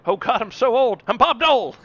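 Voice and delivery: put-on old man voice. Bob Dole impression.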